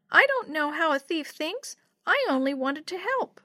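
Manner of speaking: put-on high-pitched little kid protest; small child voice, a bit hurt. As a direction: plead like a left-out little one. Young Yo-Yo frowns, protests.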